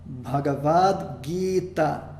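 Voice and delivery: Bhagavad Gita said slowly, syllable by syllable; slow Sanskrit demo. Shown as a demonstration. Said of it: "palavra que eu usei como exemplo".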